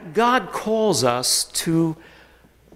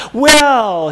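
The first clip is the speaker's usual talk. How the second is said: a higher, louder, exasperated "Well"; loud protesting well; 7 semitones higher, 8 dB louder than usual. Acted. Moses protesting to God, loud and exasperated. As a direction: burst out in protest.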